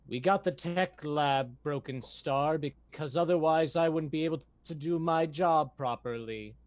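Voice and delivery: robotic voice over the ship's speaker; flat robot crew member over intercom. Acted. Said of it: "you hear this voice".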